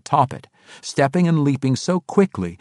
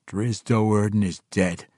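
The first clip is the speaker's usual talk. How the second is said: growled. Acted. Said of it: "Tiago growled".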